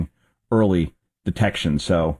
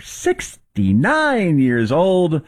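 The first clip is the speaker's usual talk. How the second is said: Fran Drescher impression; 8 semitones higher, much slower than usual. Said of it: "embraced that accent".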